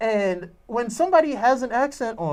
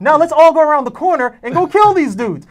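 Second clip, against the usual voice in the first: loud, higher mock-actor line with the Jamaican accent dropped; imitating dropped accent; 5 semitones higher, 9 dB louder than usual. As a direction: act out losing the Jamaican accent. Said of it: "He dropped it towards the end".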